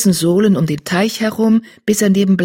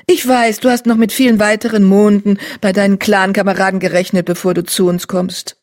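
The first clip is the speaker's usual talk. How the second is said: higher, louder kind she-cat; gentle she-cat voice; 3 semitones higher, 3 dB louder than usual. Acted. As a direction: console her like a leader. Starcat consoles the crouching cat.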